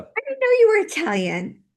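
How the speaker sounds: sudden high exclaim of discovery; high, amazed realisation; surprised. Real, not acted. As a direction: pitch jumps way up in surprise. Surprised realisation mid-reading.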